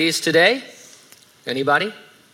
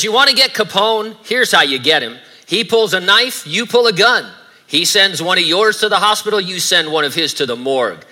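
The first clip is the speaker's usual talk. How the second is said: lightly acted tough beat cop, pressing hard; raised, forceful challenge, lightly in character; tough cop quote; 3 semitones higher, 4 dB louder than usual. Preacher quoting Malone to Eliot Ness, a lightly acted challenge. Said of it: "He says".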